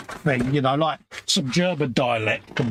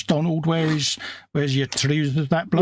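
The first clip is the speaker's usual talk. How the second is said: mock Scottish song; 3 semitones higher than usual. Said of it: "was it Andy Williams?".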